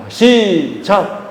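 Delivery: stretched, slow count-in; drawn-out cue. Real, not acted. Preacher cueing congregation to praise together, drawn-out cue. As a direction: draw out the signal to start together. Leading congregation in unison recitation.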